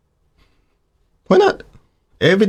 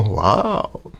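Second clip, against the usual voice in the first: quiet wow; 5 semitones lower, 5 dB quieter than usual. Shown as a demonstration. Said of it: "And go".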